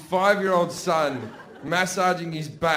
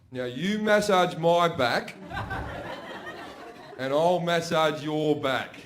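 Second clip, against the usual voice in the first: brother's slow proposal; slower than usual. Retold or imitated. Brother slowly proposing a deal.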